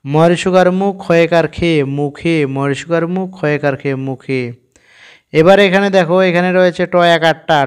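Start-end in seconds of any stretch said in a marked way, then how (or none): 0.1-4.4 name each letter with its sign, then say মুখে; spelling it out. Shown as a demonstration. Teacher spells মুখে for the learners, syllable by syllable. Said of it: "তাহলে আমরা কেমন করে উচ্চারণ করব?".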